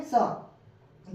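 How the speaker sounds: isolated "स" as soft C; letter sound demo. Shown as a demonstration. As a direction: say "स" alone, an s sound for C. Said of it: "क्या पढ़ेंगे".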